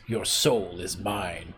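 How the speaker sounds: a mild attempt at the Mortal Kombat voice; half-done villain voice. Shown as a demonstration. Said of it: "even if I do the voice".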